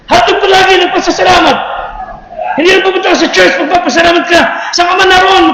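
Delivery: fervent preacher rallying the church; preaching. Acted. Pastor urging the church to give thanks, preaching. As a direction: preach it out with rising fire.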